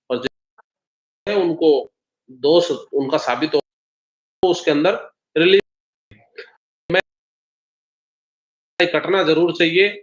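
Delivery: choppy call audio dropping out; words breaking up over a bad line; voice cutting out. Real, not acted. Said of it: "आपकी आवाज cut रही है". (टूटती हुई आवाज़, कमज़ोर नेटवर्क)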